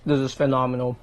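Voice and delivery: talking through a mouthful; words around a bite of food; mouth full. Real, not acted. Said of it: "don't talk with your mouth full".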